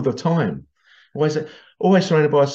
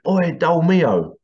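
drawn-out, higher mock shout; calling out; 4 semitones higher, 3 dB louder, much slower than usual. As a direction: call it slowly across a workshop. Workmate calling across the workshop.

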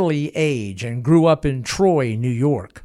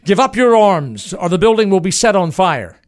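raised, higher, firm ultimatum; firm threat; 5 semitones higher, 6 dB louder than usual. Acted. Baker at the barn door threatening Booth, firm loud ultimatum. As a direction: lay down the law loudly. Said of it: "with a new degree of firmness".

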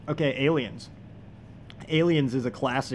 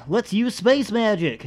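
high, slow mock-mystical Star Wars voice; hammed-up movie line, slow and high; space magic; 7 semitones higher, 4 dB louder, slower than usual. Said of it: "Star Wars line".

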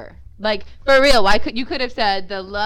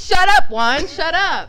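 mock angry; 6 semitones higher, 7 dB louder, slower than usual. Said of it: "She's like".

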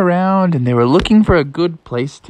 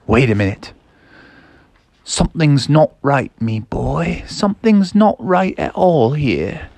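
lightly voiced wary father with pauses; wary dad. Dad warns his boy in the clearing, wary. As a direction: sense trouble and say it with suspicion. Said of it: "then his dad was like".

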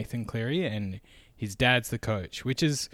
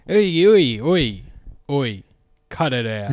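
loud "oi" fading to a firm stop; shouting to stop; 4 semitones higher, 12 dB louder than usual. Pretend. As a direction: yell to break it up, then settle. Breaking up the mock fight.

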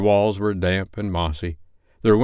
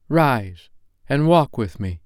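higher, solemn ghostly warning; ghost of Christmas past; 6 semitones higher than usual. Acted. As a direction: speak as an otherworldly spirit giving a warning. Ghost commands Scrooge.

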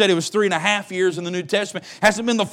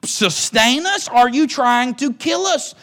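confused plea to God; 3 semitones higher than usual. Retold or imitated. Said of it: "going to be just a little confused".

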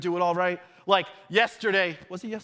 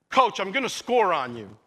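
cocky retort; 2 semitones lower than usual. Retold or imitated. Teen player telling the rival coach he will score, retold cockiness. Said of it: "a little bit of arrogance".

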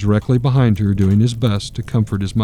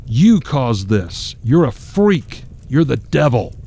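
enraged father; 3 semitones higher, slower than usual. Acted. Enraged father drags son out.

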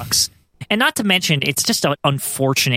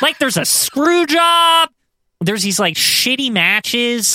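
laughing; 8 semitones higher, slower than usual. Real, not acted. Laughing while complaining about pay-per-view.

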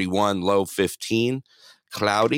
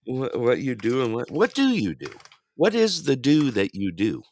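teasing mimic; 4 semitones higher than usual. Mocking partner's words.

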